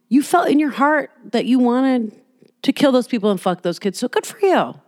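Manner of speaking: high, hammed-up smug villain, lightly voiced; mock self-satisfied killer. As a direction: parody a creep patting himself on the back. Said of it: "I don't want you to be like".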